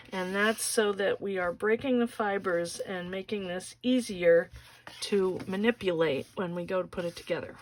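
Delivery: talking while winded; breathless from folding board; out of breath. Real, not acted. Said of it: "I'm out of breath".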